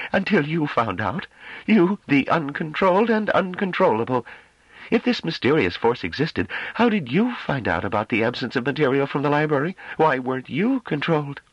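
high, mocking female voice; scornful councilwoman. A narrator's reading. Dall'Army mocks Gentibal.

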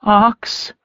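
high, strained, raw cry of a name. A narrator's reading. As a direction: let the voice crack, raw with fear. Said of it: "her voice was raw when she said".

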